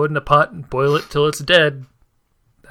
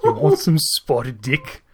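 mock British plug. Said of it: "I've become Scottish".

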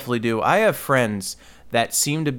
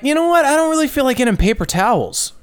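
mock shopping voice; 14 semitones higher, 3 dB louder, faster than usual. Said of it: "I was like".

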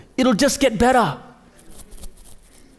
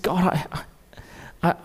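tearful retelling; 2 semitones lower than usual. Retold or imitated. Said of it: "in a ball of tears".

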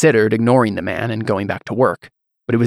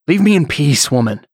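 sharp, much higher outburst; angry dismissal; 4 semitones higher than usual. Acted. Husband ordering his wife away, angry outburst. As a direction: shut her down hard.

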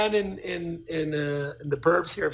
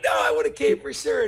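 retold emphatic reassurance; 5 semitones higher, 3 dB louder than usual.

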